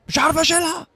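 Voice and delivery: rising complaint, a touch whinier. Pretend. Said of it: "repeated in rising voices".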